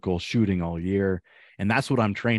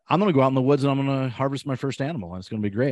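mock eager beginner; 5 semitones higher, much faster than usual. Mocking eager beginner hunter.

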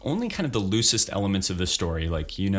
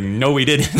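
louder, higher mock crowd reply; crowd answering back; 5 semitones higher, 9 dB louder than usual. Audience answering the monster's challenge, mock crowd shout. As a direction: call it back like a whole audience at once. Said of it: "And then everybody's like".

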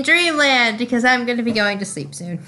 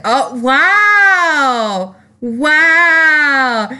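hammed-up offense; mock offended; 3 semitones higher, much slower than usual.

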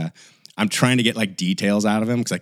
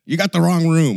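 put-on old man's reveal; 10 semitones higher, 6 dB louder than usual. Stranger reveals mistake.

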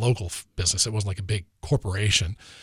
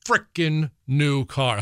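slow, emphatic indignation, word by word; getting worked up retelling it; 2 semitones higher, slower than usual. Real, not acted. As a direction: draw out the outrage slowly. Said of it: "I'm getting all worked up again".

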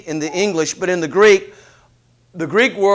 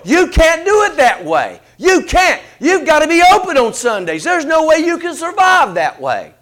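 doubting advisers; 7 semitones higher than usual. Retold or imitated. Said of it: "And they told".

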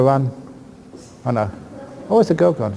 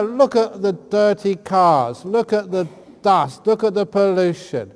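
mock-negative tone; 3 semitones higher, 4 dB louder than usual. Shown as a demonstration. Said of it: "tell her".

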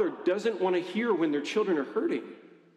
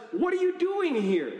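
God calling out; 12 semitones higher than usual. Retold or imitated. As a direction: boom it out like God calling into the cave. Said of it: "And, and God says".

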